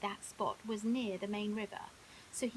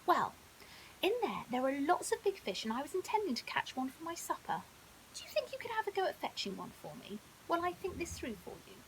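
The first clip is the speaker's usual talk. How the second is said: lightly voiced clever crocodile, a touch higher; sly, helpful crocodile, a hint of a character voice; a clever old crocodile being charming; crocodile Crickle; 5 semitones higher than usual.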